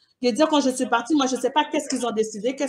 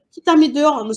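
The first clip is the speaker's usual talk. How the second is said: cri indigné; 5 semitones higher, 8 dB louder than usual. Retold or imitated. Colère en trouvant sa mère dehors.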